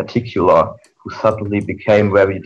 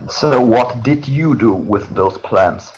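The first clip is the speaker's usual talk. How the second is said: snarl; 3 semitones higher, slower than usual. Acted. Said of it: "Nightmare snarled".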